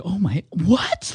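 high, drawn-out astonished question; high mock shriek at ordinary volume; mock screaming disbelief. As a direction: imitate a stunned audience member, voice shooting up. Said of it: "Like, people screaming".

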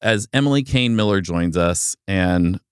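slow dramatic trailer narration; lightly voiced movie trailer announcer. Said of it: "That sounds like a movie trailer".

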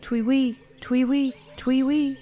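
sing-song imitated bird whistle; whistling call. A narrator's reading. Hunter's lure call, a sing-song bird whistle. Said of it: "heard a whistling call".

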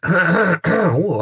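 throat catching, slow strangled oh; voice cracking. Real, not acted. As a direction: voice suddenly cracks on the word. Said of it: "my throat went very weird then".

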